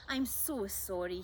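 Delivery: slow, lightly charming apology; a hint of smarm; charming young man. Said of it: "in his best charming young man voice".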